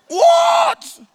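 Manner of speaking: high, loud startled cry; stunned shout; shocked what. Real, not acted. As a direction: gasp it out in disbelief. Exclamation at the snake reveal.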